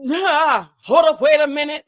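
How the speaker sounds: high, loud shout of a rap hook; hyped outburst. Retold or imitated. Host shows how the song makes you feel, hyped shout. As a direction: burst out like the beat just dropped. Acts out the song's hype.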